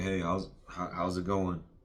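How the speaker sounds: shy, timid stuttering, very quiet and unprojected. Showing how a shy, timid person greets someone: timid, stuttering, not projecting. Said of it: "the shy and timid person is like ... I'm stuttering. I'm not projecting my voice. I have no energy".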